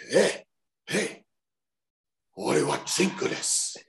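high-pitched imitation of himself calling out; calling to driver. Wrestler retelling practice on a taxi driver, high hailing voice. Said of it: "say it to the taxi driver".

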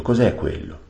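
high, sudden alarmed question; startled question. Acted. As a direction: point and ask in surprise. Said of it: "esclamò Shasta".

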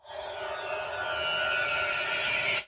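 bleating, sheep-like villain cackle; evil laugh. Acted. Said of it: "It sounds like an evil sheep".

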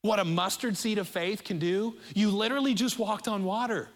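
a touch of a proud, loving father; lightly voiced loving Jesus. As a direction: encourage him like a fond father, gently. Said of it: "I think this is Jesus going".

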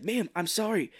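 lightly voiced high apology; Mark Wahlberg. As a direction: apologise in a slightly silly high voice. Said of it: "then he's like".

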